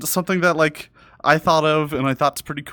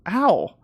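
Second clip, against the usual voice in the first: just got slapped; 5 semitones higher than usual. Pretend. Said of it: "you're slapping the invisible model".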